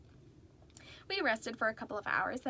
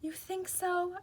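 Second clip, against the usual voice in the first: hopefully; 8 semitones higher, slower than usual. A narrator's reading. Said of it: "I said hopefully".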